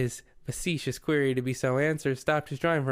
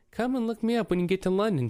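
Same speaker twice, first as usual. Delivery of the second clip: friendly, higher-pitched invitation; lightly voiced friendly gentleman; 6 semitones higher, faster than usual. A narrator's reading. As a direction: offer a friendly invitation, voice lifted. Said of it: "continued the friendly voice".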